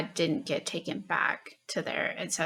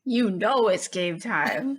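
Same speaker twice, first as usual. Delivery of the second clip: hype answer. Acted. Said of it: "is that better?".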